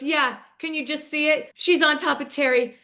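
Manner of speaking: Emily mocking a wife moaning on top of her husband; imitating Emily's impression. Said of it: "And Emily goes".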